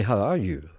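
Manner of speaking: "you" with a careful oo sound; correct "you". Shown as a demonstration. Coach showing what you should say, careful "you". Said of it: "You should say".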